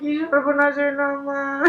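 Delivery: slow, drawn-out wail; hammed-up sobbing lament. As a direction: cry out in despair, dragging the words. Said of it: "তুমি কান্নাকাটি করতেছো কেন".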